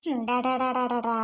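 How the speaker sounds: low da-da-da babbling; baby babble. Acted. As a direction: coo a string of da-das to a baby.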